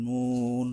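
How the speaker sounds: মুন with the "oo" held one beat; one-alif stretch. Shown as a demonstration. Teacher shows the waw rule, মুন drawn out. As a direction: lengthen the vowel in মুন. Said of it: "ওয়ার উপরে এক আলিফ টানতে হবে".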